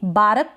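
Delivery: "बारक" में र पूरा बोलें, बा-रक; गलत मिसाल "बारक", दो हिस्सों में; पूरा र, गलत रूप. Shown as a demonstration. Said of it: "र को भी आप बिल्कुल फुल प्रोनाउंस". ("बारक" में र के बाद छोटा अ)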